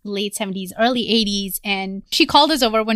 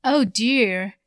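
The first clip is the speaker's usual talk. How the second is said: lightly imitated elderly neighbor, drawn out slowly; slow right down as the Southern neighbor; slower than usual. Elderly neighbor to a nonstop talker, slow Southern imitation. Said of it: "she's like".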